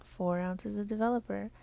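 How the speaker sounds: even, measured robotic delivery. Acted. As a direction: talk like a polite robot. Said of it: "I'm done talking like a robot".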